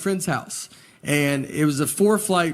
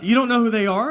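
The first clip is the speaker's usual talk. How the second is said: incredulous; 6 semitones higher than usual. Retold or imitated. Nick's incredulous reply.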